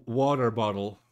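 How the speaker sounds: "water bottle" with the T sounds dropped. Acted. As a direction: say "water bottle" British-style, swallowing each T. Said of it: "without the T sound".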